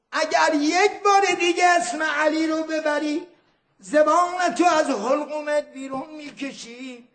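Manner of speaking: chanted threat with a shout on بار. Acted. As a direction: lean hard on بار like an angry governor. Governor threatens Nezam al-Din.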